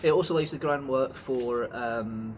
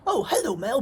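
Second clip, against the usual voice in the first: gushing greeting; 10 semitones higher than usual. Retold or imitated. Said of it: "Mel wasn't just like".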